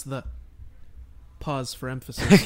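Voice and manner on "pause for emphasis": a dramatic pause before "pause for emphasis". Shown as a demonstration. Host mocks cohost's edit, dramatic pause then louder. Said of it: "pause for emphasis like that".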